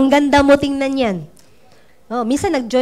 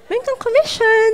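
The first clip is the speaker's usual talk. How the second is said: laughing quote; 11 semitones higher than usual. Retold or imitated.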